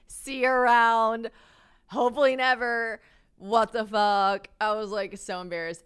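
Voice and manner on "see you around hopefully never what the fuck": loud, slow mock farewell; exasperated sign-off. Woman mocking her own texts to student, loud exasperation. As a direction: push each phrase out loud and stretched.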